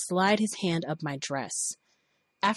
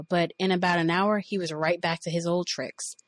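usual speaking voice

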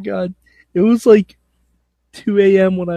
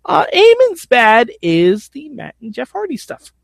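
ordinary talk

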